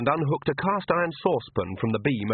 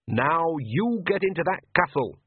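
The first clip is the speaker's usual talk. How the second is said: growled; 7 semitones higher than usual. A narrator's reading. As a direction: push her out with a grumbling order. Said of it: "Nanny growled".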